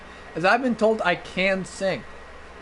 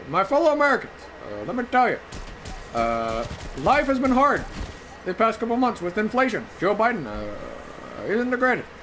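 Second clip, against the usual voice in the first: Obama impression; 2 semitones higher than usual. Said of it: "I can do an Obama impression".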